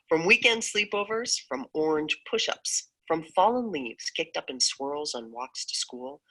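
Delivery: bright, nostalgic recital with lifts of excitement; spoken-word poem, playful memories; poem reading. Acted. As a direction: relive the childhood joys as you read.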